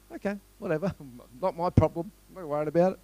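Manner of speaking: chuckling, offhand not my problem; amused dismissive aside; laughing shrug. Retold or imitated. Shrugs off builder's anger.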